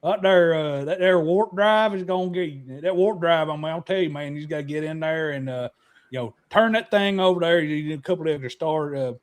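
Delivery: mock Southern. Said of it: "You gotta be Southern".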